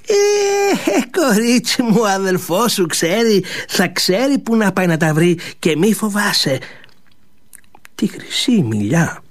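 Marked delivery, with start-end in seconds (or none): 0.1-6.6 higher, sly persuading voice; lightly voiced sly old maid; coaxing old servant. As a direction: tempt the girl sweetly.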